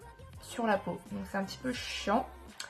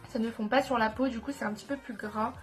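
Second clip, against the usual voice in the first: stuffy nose. Real, not acted. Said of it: "je parle avec, euh, le nez bouché".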